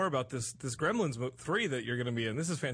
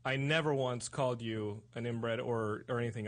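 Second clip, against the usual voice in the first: mock sincere plea to Stone Cold; mock sincere apology; 3 semitones lower, 3 dB quieter than usual. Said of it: "I apologize to you".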